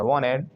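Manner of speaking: "wanted" as "wah-ned"; silent T. Shown as a demonstration. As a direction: let the T vanish from "wanted". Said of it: "टी गायब कर दिया".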